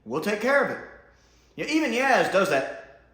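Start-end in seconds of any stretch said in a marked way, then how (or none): 0.0-0.8 higher, lightly voiced fed-up Yaz; a hint of impatience. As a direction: politely cut the speech short. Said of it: "Yaz is like".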